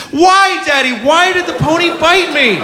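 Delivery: a hint of a bewildered little girl; little daughter. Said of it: "And she says".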